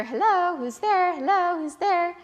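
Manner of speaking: high parrot hello, bright and bouncy. Acted. Parrots answering a knock at the door, in a high parrot voice. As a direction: squawk it like a talking parrot. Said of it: "then they would answer".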